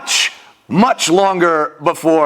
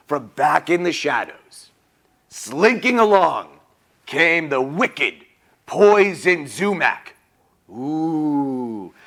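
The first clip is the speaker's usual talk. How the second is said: slow, lowered storybook menace; ominous story narration; 3 semitones lower, 4 dB quieter, slower than usual. A narrator's reading. Storyteller introducing the wicked villain to children, ominous. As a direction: draw out the villain's entrance.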